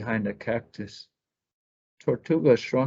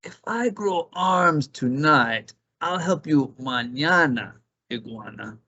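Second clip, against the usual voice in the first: easygoing snake putting things off; lazy snake; 4 semitones higher than usual. Acted. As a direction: stretch it out like a lazy serpent. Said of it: "Culebra said".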